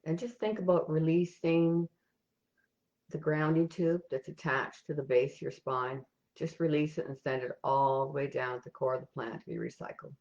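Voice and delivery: calm, even meditation guide with long pauses; guided meditation. Real, not acted. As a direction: lead them gently step by step, leaving silences between instructions.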